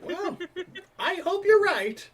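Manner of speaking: put-on high, slow doubtful old sailor. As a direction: lift the pitch, slow and unsure. NPC high voice reply.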